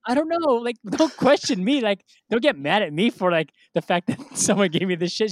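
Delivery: high, loud comic protest; defensive pleading. Retold or imitated. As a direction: plead your innocence to mom, half laughing. Son pleading with angry mom.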